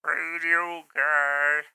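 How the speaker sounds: slow radio announcer voice. Shown as a demonstration. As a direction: stretch it like a radio host. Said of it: "Now I sound like a".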